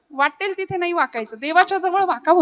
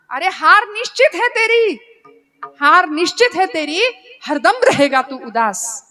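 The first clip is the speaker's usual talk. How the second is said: teasing Krishna; 3 semitones higher, 4 dB louder than usual. Retold or imitated. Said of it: "देवाने अर्जुनाला सांगितलं".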